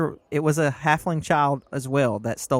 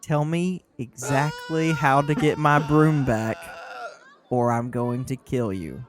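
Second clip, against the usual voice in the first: slow, deliberate menace; slow threat; slower than usual. Acted. Wizard demands the broom back from the boy, slow threat. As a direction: spell out the threat word by word.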